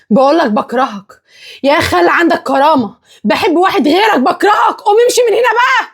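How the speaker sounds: angry tirade climbing in pitch; hysterical outburst. Acted. Woman telling her fiancé she hates him, hysterical outburst. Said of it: "حاله هستيريا".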